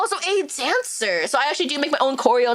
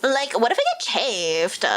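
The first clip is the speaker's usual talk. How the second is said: put-on valley girl; slower than usual. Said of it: "my Valley Girl accent".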